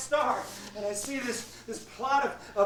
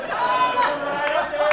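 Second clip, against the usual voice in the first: slow, loud, stretched out; drawn out slowly; 2 semitones higher, 6 dB louder, much slower than usual. Shown as a demonstration. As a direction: stretch each word out slowly. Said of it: "slow drawn out repeat".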